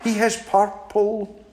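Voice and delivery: high, polite little mouse turning down an invitation; small and prim, declining sweetly; a high, prim mouse fibbing to the owl. Acted. Mouse describes.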